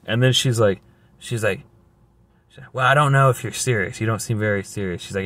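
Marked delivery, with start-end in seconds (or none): 2.7-5.0 imitating a dismissive agent, rattled off fast; mock a rude, hurried brush-off; rude rant. Agent doubts the new worker, imitated quick rude rant. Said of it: "went on a freaking rudeness, freaking rant".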